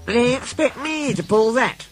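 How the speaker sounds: high, affronted question; indignant. Acted. Diesel asked to pull a van, indignant. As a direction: pitch it up in offended disbelief. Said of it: "she asked indignantly".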